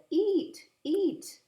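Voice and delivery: high, loud coaxing grandma. A narrator's reading. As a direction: coax the baby like a doting grandma. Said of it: "and said".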